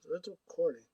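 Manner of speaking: quick whispered question to self; mock whisper. Looking for the camera's record button, mock whisper. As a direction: whisper it like a private aside.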